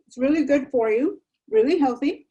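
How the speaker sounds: talking through a mouthful of food; words around a bite of banana; mouth full. Real, not acted. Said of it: "I'm not trying to talk with my mouth full".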